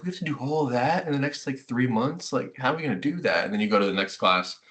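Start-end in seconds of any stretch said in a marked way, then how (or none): 0.0-3.4 mock overwhelmed. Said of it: "I'd always get so overwhelmed".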